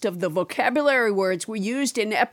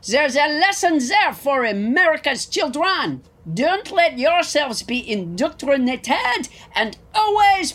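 put-on French accent; 3 semitones higher than usual. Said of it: "French Trump".

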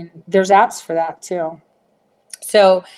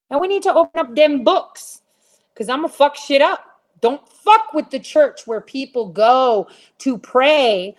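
higher, fired-up rant about the church; indignant outburst, pitch way up; heated rant; 7 semitones higher than usual. Real, not acted. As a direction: let the anger climb as you vow revenge. Ranting about church skimming money.

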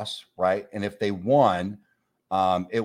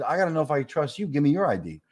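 mocking echo; 6 semitones higher than usual. The speaker mocks the guy's ID demand back at him, mocking. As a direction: parrot his line back, higher and snide. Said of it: "I said".

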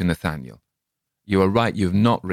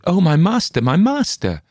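much higher and louder wail of "master"; servant's shout; 11 semitones higher, 5 dB louder than usual. A narrator's reading. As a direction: cry out for the dead master. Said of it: "The servant maid shouted".

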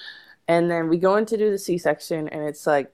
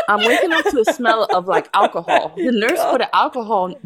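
laughing while telling; 4 semitones higher, 3 dB louder than usual. Real, not acted. Laughing while retelling fainting.

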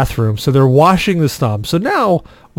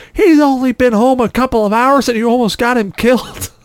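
high-pitched imitation of an angry mom; hammed-up outraged mom, pitched way up; furious scolding; 10 semitones higher than usual. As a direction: berate in a mock mother's screech. Mom scolds while beating him.

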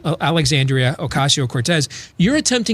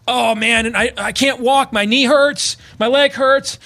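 mock whiny kid; 7 semitones higher than usual. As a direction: play the kid who fell off his bike, whining that everything hurts. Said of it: "he's like".

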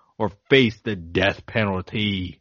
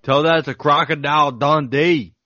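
bad Australian accent; 5 semitones higher, 4 dB louder than usual. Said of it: "That was the worst accent I've ever done".

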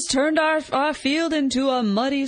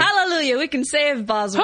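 light mock revival proclamation; a hint of gospel-preacher kid; mole kid imitation; 3 semitones higher than usual. Co-host quoting the film's mole kid, lightly mimicked revival cry. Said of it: "just changes his voice".

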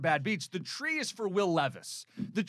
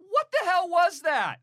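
much higher and louder disbelieving outburst; exasperated; 11 semitones higher, 6 dB louder than usual. Real, not acted. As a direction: blow up in disbelief at the bad play. Cohost exasperated at quarterback play.

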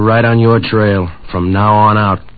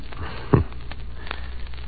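short breathy scoffing laugh; a cold little laugh at him; dry chuckle; 13 dB quieter than usual. Acted. Tough scoffs at Holliday.

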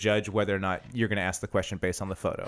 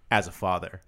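mock fatherly; 6 semitones lower than usual. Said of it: "my favorite part about being a father is saying".

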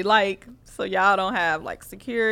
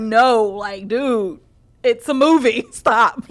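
louder, laughing imitation of bystanders intervening; mock urgent protest; 2 semitones higher, 5 dB louder, slower than usual. Bystanders rush to stop a soldier, urgent mock protest. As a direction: call out as if halting a fight, amused. Crowd acted rushing in to stop him.

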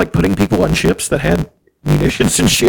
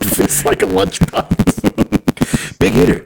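very slow Bill Murray echo; Bill Murray impression; 8 semitones lower, much slower than usual. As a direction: stretch each word, Murray style. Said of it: "getting into Bill Murray".

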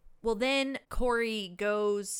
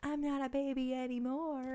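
imitating Corey; 4 semitones higher, 5 dB quieter than usual. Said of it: "it's only until Corey's like".

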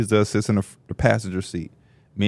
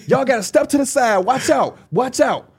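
high imitation of crowd-clearing; lady clearing path; 11 semitones higher than usual. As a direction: call people aside as the lady.

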